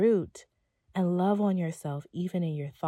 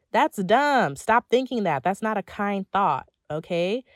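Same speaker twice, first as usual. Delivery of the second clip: firm scolding; 2 semitones higher, 5 dB louder than usual. Shown as a demonstration. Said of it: "self-talk scolding".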